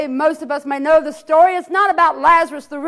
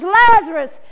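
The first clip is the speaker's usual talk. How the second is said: hollered plea; 2 semitones higher than usual. Acted. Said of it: "Jesus hollers out again".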